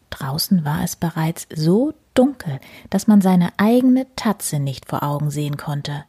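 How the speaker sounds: gentle storyteller with voiced animals; reading to children. A narrator's reading. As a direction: read it cosily to little listeners. Reads bedtime story aloud.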